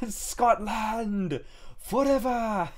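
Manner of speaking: hammed-up bad Irish accent, high and very slow, laughing; a jokey fake Irish brogue, drawn out high with a laugh; bad Irish-Scottish accent. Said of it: "not actually supposed to be a, a bad Scottish accent".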